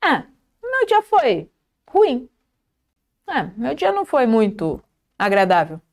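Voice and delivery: hesitant, then gently playing the bad day down; softened complaint. Shown as a demonstration. Coach shows the teacher how to describe a bad day mildly. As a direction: hold back and soften the bad news. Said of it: "Não preciso falar que o meu dia foi péssimo".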